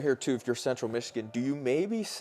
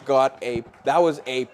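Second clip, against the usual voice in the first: excited; 5 semitones higher, 8 dB louder than usual. Real, not acted. Analyst reacts to the homer.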